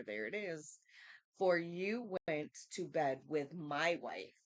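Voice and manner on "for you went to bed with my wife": scripture reading. Acted. Reads scripture aloud.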